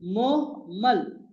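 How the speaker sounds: मोहमल stretched out very slowly, moh-mal; teacher modelling मोहमल slowly and clearly; careful pronunciation. Shown as a demonstration. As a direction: say मोहमल slowly, each syllable held. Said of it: "कहते हैं मोहमल".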